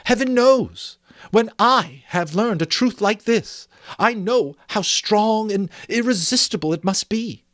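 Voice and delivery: Belle, impassioned. Acted. Belle refusing Scrooge, growing impassioned. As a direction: let the conviction swell.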